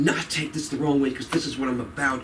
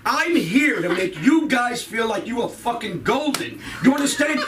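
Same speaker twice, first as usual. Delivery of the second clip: shouted declaration; 5 semitones higher than usual. Real, not acted. Comic shouting closing message.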